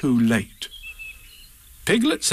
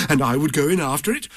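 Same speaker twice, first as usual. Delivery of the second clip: eager Pooh, a touch quicker; mild excited Pooh; 3 semitones higher, faster than usual. Acted. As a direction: jump in eagerly, understated. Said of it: "said Pooh excitedly".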